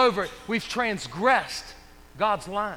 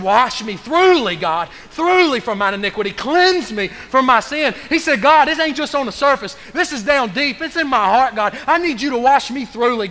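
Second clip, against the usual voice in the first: louder, impassioned plea to God; pleading prayer; 2 semitones higher, 5 dB louder than usual. Acted. David begging God to cleanse him, loud and pleading. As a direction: cry out to God to wash you clean.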